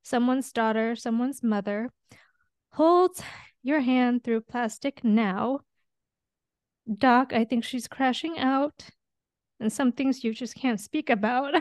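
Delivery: reading lyrics, choking up. Shown as a demonstration. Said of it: "It says".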